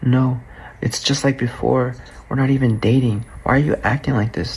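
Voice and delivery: mock victim, pleading lightly without real crying; playing the victim. Boyfriend mimicking her protests during the fight, playing the victim. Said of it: "starts playing the victim, starts crying".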